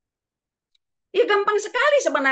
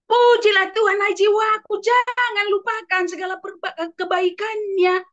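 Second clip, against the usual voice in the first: higher, louder proclamation; joyful praise; 7 semitones higher, 3 dB louder than usual. Acted. David urges his own soul, loud joyful praise. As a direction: call out praise to yourself.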